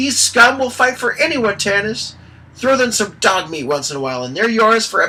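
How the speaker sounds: very high, piercing, shrill and loud, belted out. A narrator reads Tasslehoff calling out to Tanis mid-battle, in his shrill voice. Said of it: "Tasselhoff's shrill voice rang out".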